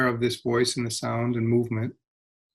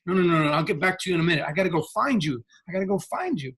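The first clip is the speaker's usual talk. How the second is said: higher-pitched, hurried mock excuse; busy brush-off; 5 semitones higher, faster than usual. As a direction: act out someone too busy to listen. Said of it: "We're up here going".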